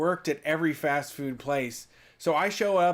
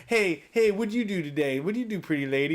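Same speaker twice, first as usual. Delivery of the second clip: lightly voiced oily flirt; ladies' man voice; 3 semitones higher than usual. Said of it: "a ladies' man type voice".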